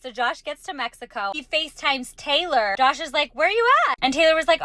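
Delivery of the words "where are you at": demanding call. Retold or imitated. Josh FaceTimes the no-show date.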